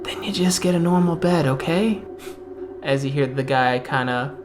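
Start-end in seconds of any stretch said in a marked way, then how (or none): 0.0-2.0 smug captor. Acted. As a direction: sweet-talk a prisoner into obeying. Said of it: "He goes".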